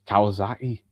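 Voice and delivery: short Geordie catchphrase demo; lightly put-on Geordie accent. Shown as a demonstration. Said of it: "if you're Geordie".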